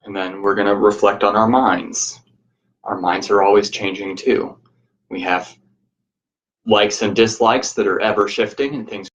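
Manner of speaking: measured, even guiding voice with long pauses; guided meditation. Real, not acted. Teacher guiding listeners to reflect on change, guided meditation.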